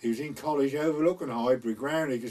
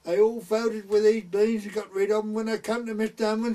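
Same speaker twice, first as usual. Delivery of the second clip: quoting a gossiping woman; 8 semitones higher, 5 dB louder than usual. Retold or imitated. Mother retelling a neighbour's gossip.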